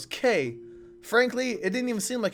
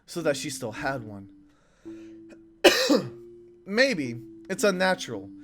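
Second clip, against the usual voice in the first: earnest character voice. Acted. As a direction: speak it like a hopeful confession. Reads game character dialogue.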